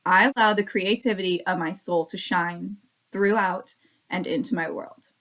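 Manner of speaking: stumbles into throughout and into; first flawed reading of the mantra; misread affirmation. Shown as a demonstration. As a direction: read it aloud with the slip, shine throughout and into. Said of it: "'cause I misread it the first time".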